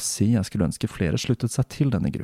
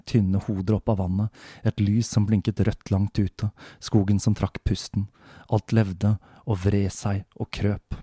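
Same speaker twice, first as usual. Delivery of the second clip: story narration. A narrator's reading. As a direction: read it like an eerie night story. Reads novel excerpt aloud. (rolig høytlesning av fortelling)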